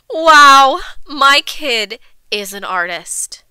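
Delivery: loud, long wow, then slow; amazed mother. A narrator's reading. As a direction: stretch out the marveling. Mother amazed by smelly pictures.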